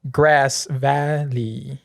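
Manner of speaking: slow, halting reading of the roll; flustered substitute teacher. Pretend. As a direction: read the roll like an unsure substitute. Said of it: "read them like a substitute teacher".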